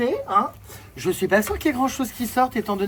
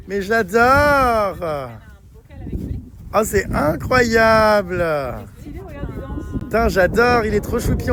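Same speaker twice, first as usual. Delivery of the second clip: gushing; 3 semitones lower, slower than usual. Real, not acted. Gushing over piglet mascot.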